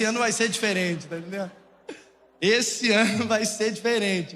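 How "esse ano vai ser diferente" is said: laughing. Real, not acted. Laughing at his own resolution.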